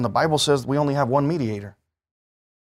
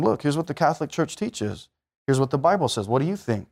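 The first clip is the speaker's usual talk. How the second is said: softer, friendly explaining voice; gentle kind tone; 3 dB quieter than usual. Shown as a demonstration. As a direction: calmly reason with one person. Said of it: "have a nice sounding voice".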